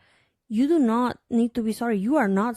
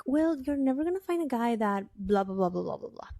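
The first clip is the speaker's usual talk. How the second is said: mimicked friends; 2 semitones higher, 4 dB quieter than usual. Imitating American girlfriends doubting her dating standards, dismissive. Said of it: "they were like".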